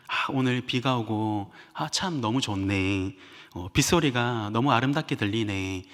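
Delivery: soft, slow, contented murmur; dreamy delight. Retold or imitated. The lover walking in the rain, softly delighted. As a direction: savor each word like a happy lover.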